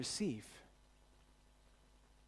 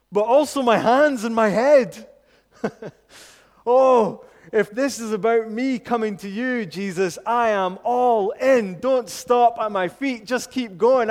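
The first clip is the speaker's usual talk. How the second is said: loud, higher, bursting with enthusiasm; eager Peter; 5 semitones higher, 10 dB louder than usual. Retold or imitated. Peter begging Jesus to wash all of him, excitedly. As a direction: throw yourself in, all or nothing.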